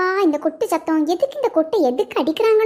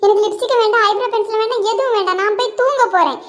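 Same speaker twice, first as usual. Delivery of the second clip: sulking; 4 semitones higher than usual. Acted. Daughter sulking after being scolded.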